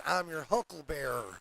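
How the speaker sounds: "hucklebearer" ending like "bearer", not "berry"; pronounced as written. Shown as a demonstration. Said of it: "was written as".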